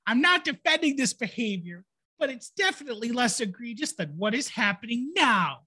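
whiny bitchy voice. Acted. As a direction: read it like an annoying customer. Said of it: "Read it in the bitchy voice".

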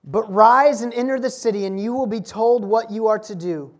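commanding voice. Acted. Preacher voices Jesus commanding Saul.

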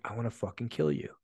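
not screaming, not mad. Retold or imitated. Man role-playing at a pillow, not getting mad. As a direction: say the threat quietly, without any anger. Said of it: "I wasn't screaming. I wasn't getting mad".

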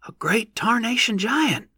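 high, slow country yokel; rustic old-timer voice. A narrator's reading. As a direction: drawl it like a backwoods farmer. Rustic onlooker describing the giant.

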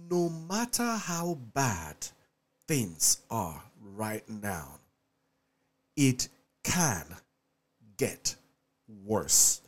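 congested, cold-in-the-head voice; stuffy nose. Real, not acted. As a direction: speak through a blocked nose. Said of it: "I have a cold".

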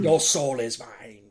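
slow, spat-out villain line; hard enunciation. Retold or imitated. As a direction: bite off each word, slowly. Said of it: "like, hard enunciation".

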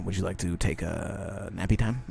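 put-on low, hushed voice as if coaxing a toddler; mock soothing aide. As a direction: talk to the president like a sleepy child.

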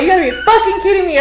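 high, loud exasperated yell; imitated car-scream rant; screaming in frustration. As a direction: yell it in disbelief, half laughing. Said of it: "I'll just be fucking screaming".

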